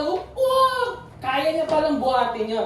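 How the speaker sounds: high, thrilled gasp of amazement; excited crowd shout. Retold or imitated. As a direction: cheer like the whole cinema just saw the hammer lifted. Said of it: "lahat sigawan".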